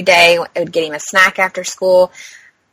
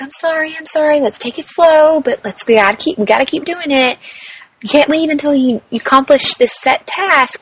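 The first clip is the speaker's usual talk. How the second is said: higher-pitched, nice apologetic coaxing; apologetic therapist; 7 semitones higher than usual. Retold or imitated. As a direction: gently urge a patient on, apologizing. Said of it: "physical therapist is apologizing and being nice".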